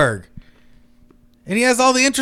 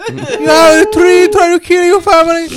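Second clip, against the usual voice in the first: bad Hispanic accent; 6 semitones higher, 3 dB louder than usual. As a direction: wail it in a terrible Hispanic accent. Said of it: "the worst Hispanic accent".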